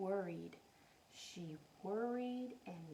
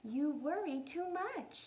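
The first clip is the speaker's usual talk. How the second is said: mother voice; 4 semitones higher than usual. Acted. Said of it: "said her".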